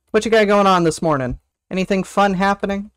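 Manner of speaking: normal talking voice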